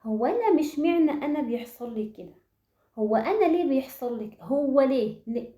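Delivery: a frustrated woman imitated, whining why me; mock despairing whine. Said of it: "قاعدة عمالة تقول".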